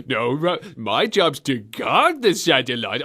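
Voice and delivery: imitated slurred, mumbled "satellite"; mock slurred mumbling. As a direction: slur "guard the satellite" like a mumbling villain. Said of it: "sounds so slurred and mumbling".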